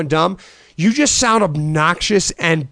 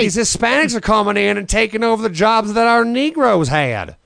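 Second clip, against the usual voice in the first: a hint of an old Southern bigot caricature; mild mock Southern accent; Foghorn Leghorn Southern accent; 4 semitones higher than usual. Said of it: "Hey, Froghorn Leghorn ... speak with your real voice".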